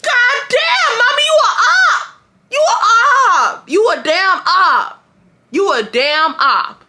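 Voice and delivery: high, drawn-out anguished howl; hammed-up high-pitched protest; mock outraged wail. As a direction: wail at mom in betrayed disbelief. Acts out outraged reply to mother.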